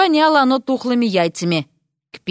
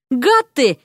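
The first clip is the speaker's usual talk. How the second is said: shouting; 3 semitones higher than usual. Acted. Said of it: "кричала Вася из банки".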